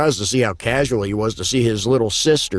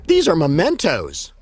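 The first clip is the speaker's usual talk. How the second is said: jolly; 5 semitones higher than usual. Acted. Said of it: "She replied in a jolly voice".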